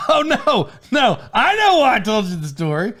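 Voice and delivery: high outburst with a laugh; sudden realization. Real, not acted. Podcaster remembering why he told the story, real excited realization. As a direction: blurt it as the memory suddenly lands.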